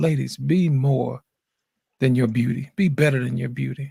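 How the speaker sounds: toned-down, smoothed-out delivery. Restating a message that upset people, in a lowered voice. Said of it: "Let me lower my voice".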